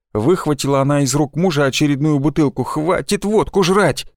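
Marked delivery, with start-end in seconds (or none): 2.6-4.1 high, slow stern scolding. Acted. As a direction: scold a drunk husband. Wife snatches bottle, scolds. (сердито отчитывая)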